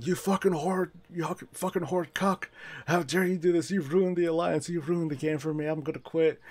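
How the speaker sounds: high mock tantrum; mock angry fan. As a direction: ham up a furious gamer screaming insults. Acting out a furious fan.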